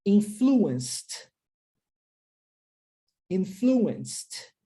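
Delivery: "Influenced" clearly, long gap between takes; repeat-after-me model. Shown as a demonstration. Teacher has learners repeat, isolated careful "Influenced". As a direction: model "Influenced" with crisp final t, then wait. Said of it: "vou falar para que você repita".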